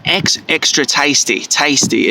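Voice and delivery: a hint of Australian vowels, "extra tasty" said with a long A; lightly mock an Australian shop assistant with a long A in "tasty"; light Australian accent. Shown as a demonstration. Offering cheese at an Australian counter, light Australian accent. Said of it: "that sounds more Australian".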